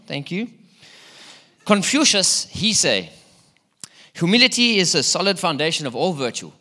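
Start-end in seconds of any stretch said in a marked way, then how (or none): 1.6-6.5 lightly put-on mock Chinese sage accent; Confucius. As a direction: attempt a sage's Chinese accent, half-heartedly. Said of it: "that's my best Confucius accent".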